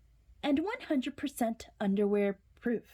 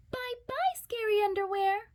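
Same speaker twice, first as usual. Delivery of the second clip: much higher, triumphant sing-song farewell; gleeful goodbye; 13 semitones higher than usual. Acted. Jasper waves the scary underwear off, sing-song. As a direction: wave the underwear off with relief.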